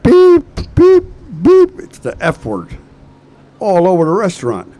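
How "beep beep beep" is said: very high, loud bleeped-out cursing; hammed-up screaming fit; mock screaming. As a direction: scream out each censor beep. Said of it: "jumps up and starts screaming".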